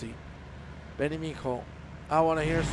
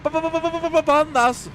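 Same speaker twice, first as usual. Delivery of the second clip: high rapid-fire stutter landing on the word; machine-gun first syllable, then release; playful stutter build; 12 semitones higher, 8 dB louder than usual. Acted. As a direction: parody the catchphrase build-up. Echoes the stuttered catchphrase with pandas.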